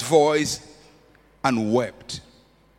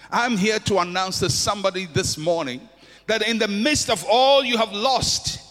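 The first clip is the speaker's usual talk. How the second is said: building, emphatic sermon appeal; preaching. Acted. Pastor assuring the congregation, fervent preaching. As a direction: lift them up with hope.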